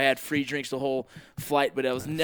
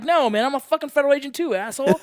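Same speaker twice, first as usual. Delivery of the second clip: mock yell; 10 semitones higher, 3 dB louder than usual. Retold angry retort to officers.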